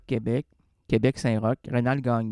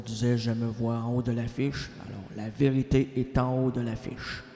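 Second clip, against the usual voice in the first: vieux sage; 7 semitones lower, 6 dB quieter than usual. Acted. (voix grave et lente de vieux sage)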